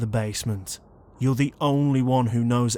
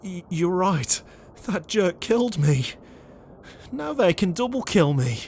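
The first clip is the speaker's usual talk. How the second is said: panicking; 4 semitones higher than usual. Acted. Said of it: "We're in full panic mode right now".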